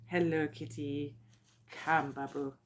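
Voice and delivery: low, slow coaxing; talking to pet. Real, not acted. Woman greeting her cat mid-video, low and coaxing.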